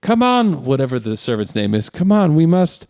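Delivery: mock tired hero cry; exhausted D'Artagnan. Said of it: "he goes".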